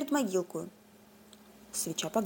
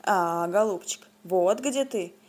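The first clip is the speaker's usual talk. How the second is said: bear roar, mild; 3 semitones lower, slower than usual. Acted. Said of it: "заревел медведь".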